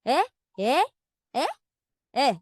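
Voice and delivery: demonstrating "Eh?" in varied feelings; short "Eh?" exclamations, each toned differently; range of emotions. Shown as a demonstration. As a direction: act out different meanings of "Eh?". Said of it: "used to express a range of emotions".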